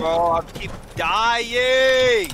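frustrated outburst. Real, not acted. Frustrated at dying in game.

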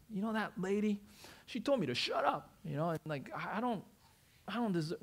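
a lightly voiced aggrieved old man; offended old man. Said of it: "he was so offended".

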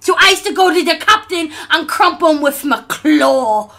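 ork voice. Acted. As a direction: bellow like a dim ork captain. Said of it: "do the voice".

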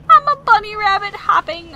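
high, loud, silly bunny voice; playful bunny. Pretend. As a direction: chirp it like a hopping rabbit. Pretends to be a hopping bunny.

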